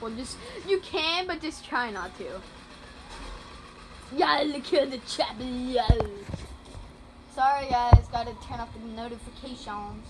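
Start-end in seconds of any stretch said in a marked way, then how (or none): 4.1-5.9 put-on game villain character; terrorizer voice. Gamer greeting viewers as the terrorizer, villain voice. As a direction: play the terrorizer greeting his fans. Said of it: "I'm the terrorizer".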